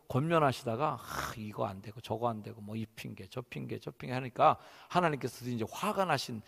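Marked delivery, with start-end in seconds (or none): 1.0-4.1 low, soft grumbled excuses; excuse-making. Acted. Moses making excuses to God, reluctant. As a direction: mumble a string of excuses.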